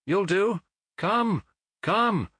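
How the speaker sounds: high, hurried urging; urgent call. A narrator's reading. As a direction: beckon him over in a rush. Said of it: "he cried".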